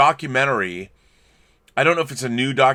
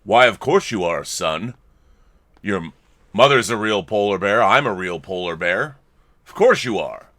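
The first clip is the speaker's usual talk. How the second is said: lower, reassuring dad voice; father bear reassuring his cub in a lower voice; 5 semitones lower than usual. Acted. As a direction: settle him down like a patient father. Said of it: "Father bear's like".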